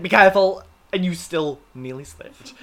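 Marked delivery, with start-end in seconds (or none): 0.0-0.6 loud, slightly raised mock shout; retold warning yell. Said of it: "and I yelled".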